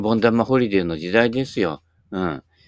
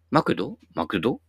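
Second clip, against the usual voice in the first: imitated Kansai pitch pattern on "マクド"; Kansai intonation; 3 dB quieter than usual. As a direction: say "マクド" as a Kansai questioner would. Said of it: "関西の人ってやっぱりイントネーションが".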